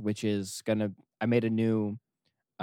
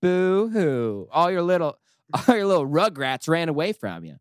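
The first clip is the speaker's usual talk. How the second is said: louder, higher mocking jeer; mocking taunt; 4 semitones higher, 5 dB louder than usual. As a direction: rub it in with glee. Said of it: "if I can get that in there".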